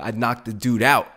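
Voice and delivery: normal talking voice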